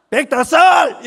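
imitating an annoyed mother's loud retort; annoyed mom. Pastor mimics a mother snapping the child's surname, mock angry shout. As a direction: snap back the age like a fed-up mom, half laughing. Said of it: "엄마인가 본데 열받아가지고".

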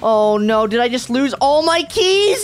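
high wail of loss; real despairing whimper; crying out in dismay. Real, not acted. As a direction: cry out as everything is gone. Loses all her keys.

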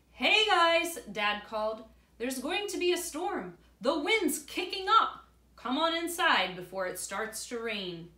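loud, high call across the yard; dad calling out. Acted. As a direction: call the boys in before the storm. Dad calling kids inside.

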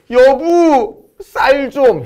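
high, loud, drawn-out wail; mock crying plea. Husband tearfully begging his wife for rice, mock crying. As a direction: wail it pleadingly, hammed-up. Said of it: "울면서".

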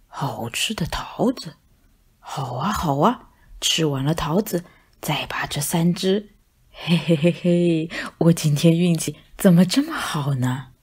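plotting to himself in a sly hush; sly scheming. Acted. Cat secretly plots. (大肥猫心里偷偷打坏主意，低声窃笑)

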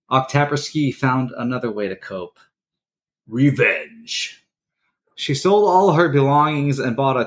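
read-aloud history piece, lightly dramatic; story narration. Acted. Host reading a WWII story to his co-hosts, narrating. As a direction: tell the war tale like a podcast segment.

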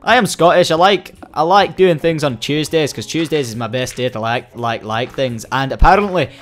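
playful mock-Scottish accent; put-on Scottish accent. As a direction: slip into a jokey Scottish brogue. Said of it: "I don't know why I gone Scottish".

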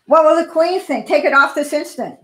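a panicked snob giving orders; bossy snob. Acted. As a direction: order her about like a fussy matron. Mrs McSnoot demands hat removed.

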